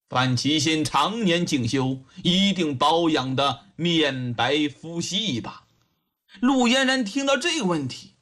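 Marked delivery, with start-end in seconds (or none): 0.1-5.6 low, measured leading question; judge probing. Acted. Judge tests the witness on her master's looks, calmly probing. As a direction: ask calmly as the old official.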